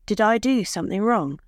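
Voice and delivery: anxious, pleading question; trembling voice. Acted. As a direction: let the voice tremble with worry. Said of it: "Her voice trembled".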